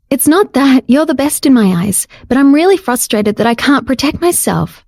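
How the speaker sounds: light female voice, earnest; Jade's voice, pleading. Acted. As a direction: gently insist she is frustrated. Jade pleads with Dario.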